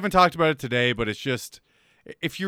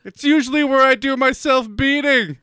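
hammed-up seducer; 5 semitones higher, 3 dB louder than usual. Mock seductive text continued.

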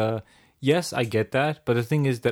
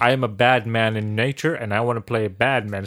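Martin Freeman; 3 semitones lower than usual. Retold or imitated. Actor annoyed at being cast as goody-goody, lightly imitated. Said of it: "Martin Freeman being annoyed".

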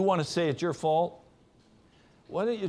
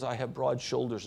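quiet and gentle; 5 semitones lower, 5 dB quieter than usual. Retold or imitated. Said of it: "he would say very quietly and gently back to her".

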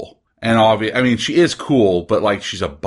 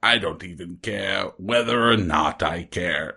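apathetic; 3 semitones lower, 4 dB quieter than usual. Retold or imitated. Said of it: "And they're like".

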